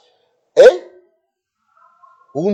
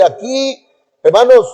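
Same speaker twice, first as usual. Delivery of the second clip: raised-pitch preacher addressing the flock; preacher announcing; 7 semitones higher than usual. Retold or imitated. Preacher calling to the congregation, announcing. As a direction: call out higher, like a preacher from the pulpit. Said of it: "empieza el predicador a decir".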